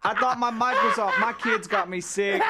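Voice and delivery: laughing through an embarrassed apology; giggly, high, flustered. Real, not acted. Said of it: "I'm so embarrassed".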